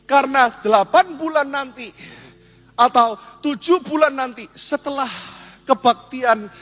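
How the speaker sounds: God proclaiming. Acted. Preacher as God promising singles a match, proclaiming. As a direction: proclaim it grandly, drawing out the words. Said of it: "Tapi coba kalau Tuhan bilang".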